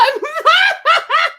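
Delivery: a high, loud burst of laughter; loud shrieking laugh. Real, not acted. Laughing at own joke.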